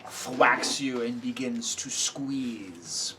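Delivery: slow, menacing description; game master narration. A narrator's reading. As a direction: stretch out the squeeze. GM describes the hit.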